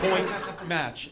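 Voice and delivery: light put-on British accent; prestigious umpire accent. Umpire announcing the match, lightly affected British accent. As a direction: call it in mock-prestigious British. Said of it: "like, prestigious accent".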